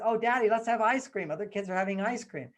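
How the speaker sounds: a hint of a begging kid; pleading child. Daughter begs daddy for ice cream, pleading.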